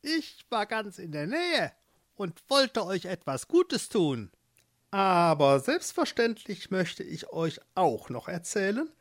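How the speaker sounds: a hint of a honeyed old witch; friendly witch. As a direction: sweet-talk them into the bargain. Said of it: "sprach mit freundlicher Stimme".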